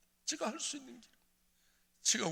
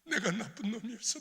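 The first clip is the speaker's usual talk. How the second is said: higher, pleading 내가 나쁜 놈이었어; pleading confession; 6 semitones higher than usual. Retold or imitated. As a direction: beg her forgiveness. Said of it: "아니야, 아니야". (아내에게 용서를 비는 목소리)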